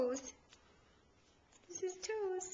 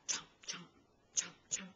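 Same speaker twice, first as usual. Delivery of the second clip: alligator chomp; 4 semitones lower, 5 dB quieter than usual. Pretend. Alligator biting sounds for baby.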